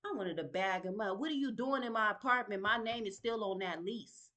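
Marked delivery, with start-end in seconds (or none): 1.2-4.3 louder, indignant demand; retold angry confrontation. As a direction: call him out at the door, loud. Confronting man at her apartment.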